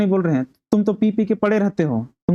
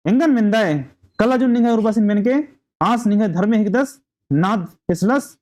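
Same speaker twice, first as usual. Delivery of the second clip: angry outburst; 4 semitones higher than usual. Acted. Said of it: "तो सुगिया गुस्सा हो रही है".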